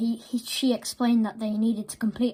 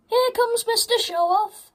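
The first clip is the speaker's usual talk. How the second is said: sneering; 13 semitones higher than usual. A narrator's reading. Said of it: "said Ben".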